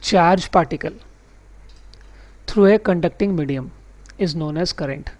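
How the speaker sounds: very slow, word by word definition read; slow dictation reading. Shown as a demonstration. Teacher reads the textbook definition to his class slowly. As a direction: read the definition out slowly so students can note it. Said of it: "मैं पढ़ भी लेता हूँ".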